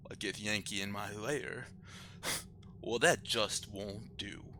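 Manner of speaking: soft, slow whispered menace; a polite threat breathed out; cold quiet menace. Acted. Proper head, cold menace.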